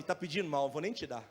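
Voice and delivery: low-pitched, matter-of-fact refusal as God; God's low, unimpressed reply; God answering. Acted. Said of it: "Aí Deus fala assim".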